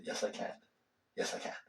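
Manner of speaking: fading to a soft whisper; whispered affirmation. Shown as a demonstration. Teacher shows students how to whisper a self-affirmation. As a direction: whisper it to yourself, letting it settle. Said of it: "you just say".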